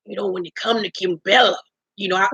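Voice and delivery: slurred bad-teeth impression; Jewels. Host voicing castmate's confessional, mock slurred voice. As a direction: imitate a mush-mouthed man giving a confessional. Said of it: "Jewel say".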